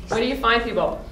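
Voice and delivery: talking around a lozenge; mouth full. Real, not acted. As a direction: lozenge in the mouth, words a bit thick. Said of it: "I have a lozenge in my mouth".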